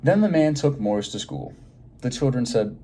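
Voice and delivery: lively, expressive read-aloud for a class; reading to children. Acted. Teacher reading a picture book aloud to her class, lively and expressive. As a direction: draw the kids into the story.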